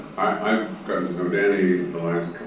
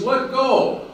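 high, loud booming answer; a hammed-up God speaking from above; God's voice; 5 dB louder, slower than usual. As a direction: answer like a calm almighty voice. God advises in joke.

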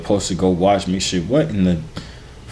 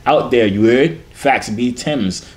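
playful mock London British slang accent; 3 semitones higher, slower than usual. Showing viewers he is the British, mock British accent. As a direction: put on a hammed-up British roadman accent. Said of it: "See, I'm the British".

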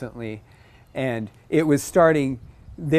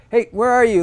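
higher, louder anxious call; worried bird calling; 9 semitones higher, 6 dB louder than usual. Retold or imitated. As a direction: call out for a missing mate. Male cardinal voiced, worried.

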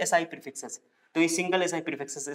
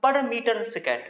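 higher-pitched "per meter second", with just one per; model reading; 6 semitones higher, much slower than usual. Shown as a demonstration. Teacher shows students how to read the unit, model reading. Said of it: "पढ़ेंगे".

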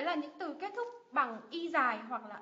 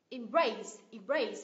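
"Embrace" with BRACE punched louder; second-syllable stress; 4 dB louder, much slower than usual. Shown as a demonstration. Teacher modelling "Embrace" for two-syllable verbs, stress on BRACE. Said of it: "nhấn âm tiết thứ hai".

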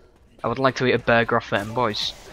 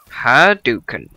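drawn out, louder fighting game move call; mock fireball shout; 7 dB louder than usual. Gamer swinging a weapon shouts a fighting game move. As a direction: yell it like throwing a fireball.

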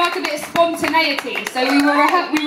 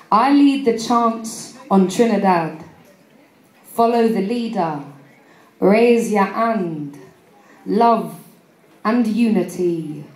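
open mic poet; slower than usual. Acted. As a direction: perform it like a slam poem. Recites her spoken word poem.

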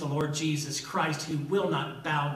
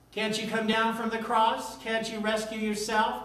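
mocking jeer; 5 semitones higher than usual. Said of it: "Mockery, mockery".

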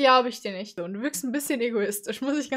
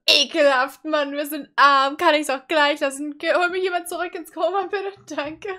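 lightly hammed-up disgusted whining; mock a spoiled complainer, starting loud; mock June; 5 dB louder than usual. Reactor imitating June whining about being poor, mock disgust. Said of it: "du bist nur so".

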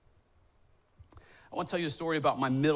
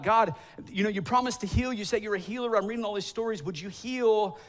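higher, urgent plea to God; pleading prayer; 4 semitones higher than usual. Retold or imitated. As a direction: beg God to keep his promise.

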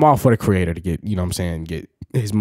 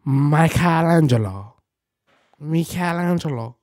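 mock Italian; 6 semitones higher, slower than usual. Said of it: "he don't look like no".

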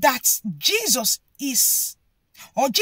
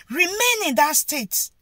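silencing order; 6 semitones higher, 4 dB louder, slower than usual. Retold or imitated. Crowd ordering Bartimaeus to stay silent, commanding. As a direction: bark at him to shut up. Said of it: "trying to tell him".

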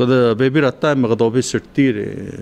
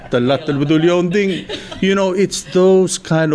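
words carried on a real laugh, a bit higher; laughing while talking; 8 semitones higher than usual. Real, not acted. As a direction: chuckle through the memory as you say it. Laughs recalling a family memory.

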